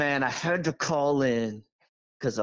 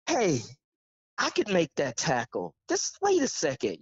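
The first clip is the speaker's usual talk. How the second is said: mock eager; 2 semitones higher than usual. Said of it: "get up and go".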